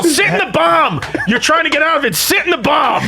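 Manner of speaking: high-pitched mock yell; Colin Quinn. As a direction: imitate a heckler hollering at the stage. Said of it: "Colin Quinn would yell".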